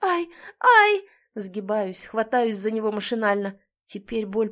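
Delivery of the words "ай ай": sharp, high, loud yelps; a sudden stab of pain; injured wife yelping in pain as she tries to rise; cry of pain. A narrator's reading.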